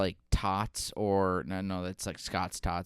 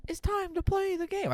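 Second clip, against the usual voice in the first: much higher announcer voice; game voice. Acted. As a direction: belt it like the game intro. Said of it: "that's the voice we use for the game".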